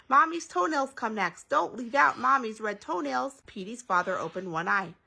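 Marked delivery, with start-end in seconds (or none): 0.1-3.4 high-voiced little kid prompting; pitched-up eager boy; insistent child. A narrator's reading. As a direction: remind Daddy urgently in a raised voice. Petey prompts the nodding father.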